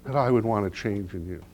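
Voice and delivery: soft, hushed tearful reply; quiet, a touch of tears in it; tearful wife. Retold or imitated. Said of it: "She starts to cry".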